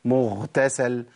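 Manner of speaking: "مغتسل" said as "مختسل"; ghain turned kha. Shown as a demonstration. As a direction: breathe the غ of "مغتسل" into خ. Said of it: "في ناس بتقول مغتسل". ("مغتسل" بخاء بدل الغين)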